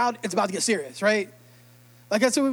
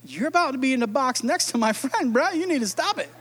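1 joking threat; 2 semitones higher than usual. Retold or imitated. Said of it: "You'd be like".

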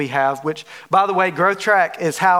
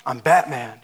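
a hint of brooding Batman; 5 semitones lower than usual. Preacher mimics Batman once more, lower. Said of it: "It's like".

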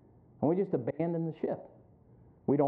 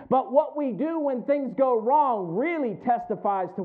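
high, driving sermon delivery; emphatic pulpit voice, pressing each point; forceful preaching; 7 semitones higher, 5 dB louder than usual. Real, not acted. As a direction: preach it out with raised pitch.

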